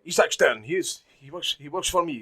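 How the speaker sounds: loud, high insistence; mock commanding boss; insistent demand. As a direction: demand him back from the officer. Schindler demanding his worker back.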